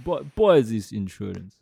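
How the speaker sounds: a light put-on Russian accent, menacing. Joking about Russian insurance sellers, a lightly threatening Russian accent. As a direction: lean on a mild Russian accent to sound threatening. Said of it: "But in the Russian accent".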